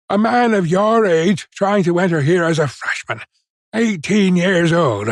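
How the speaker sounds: high-pitched, scandalized tirade at moderate volume; indignant shouting. A narrator's reading. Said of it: "he shouted".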